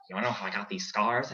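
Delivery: lightly voiced movie villain; Joker impression. Shown as a demonstration. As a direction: toss off a quick Joker line. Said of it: "Do you wanna hear the Joker or Stitch?".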